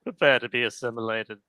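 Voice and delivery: low, menacing demon line; a hint of a sinister servant; Popo voice. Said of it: "the Popo voice".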